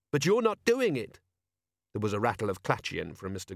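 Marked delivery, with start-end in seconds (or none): 0.1-1.2 put-on high, scornful teenage jab; rude boy voice. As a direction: sneer it like a cheeky lad. Boy challenges Carrot.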